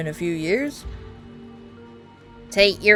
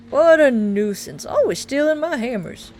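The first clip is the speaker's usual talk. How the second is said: grumbling; 3 semitones higher, 6 dB louder than usual. Acted. Miner NPC complaining.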